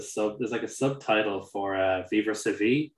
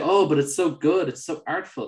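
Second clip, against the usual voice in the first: higher-pitched mock gushing defence; mimicked pleading artist; 6 semitones higher, 4 dB louder than usual. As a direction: imitate an artist cooing over the work.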